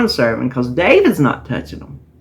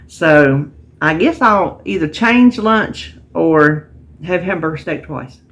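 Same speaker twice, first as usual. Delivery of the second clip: talking through a yawn; sleepy words with a yawn. Real, not acted. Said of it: "Excuse me for the yawning today".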